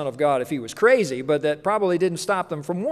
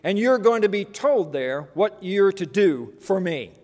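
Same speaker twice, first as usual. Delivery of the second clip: firm, deliberate, raised-pitch declaration; very clear answer; 3 semitones higher, 4 dB louder than usual. Acted. Jesus answering the fallen Saul, clear firm declaration. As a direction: announce it clearly, then give orders. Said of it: "answered very clearly".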